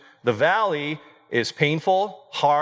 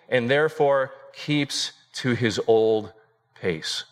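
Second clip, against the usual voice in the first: solemn reading; 4 semitones higher than usual. Acted. Reads Spurgeon quote aloud.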